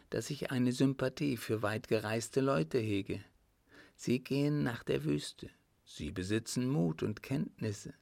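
lightly voiced countess, admiring; countess confessing. Countess admits her delight in the traveller, lightly voiced and admiring.

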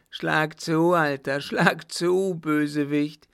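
high, loud dare; defiant cry. Acted. Mad son daring his father to strike, crying out. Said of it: "rief der Baron".

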